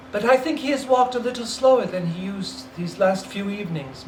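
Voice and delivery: lightly voiced boy; young son answering gently; Peter, subdued. Peter answering his mother, subdued.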